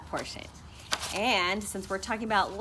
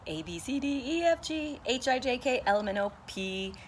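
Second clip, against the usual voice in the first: fast alphabet; 5 semitones higher than usual. Shown as a demonstration. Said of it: "I'll do it really fast".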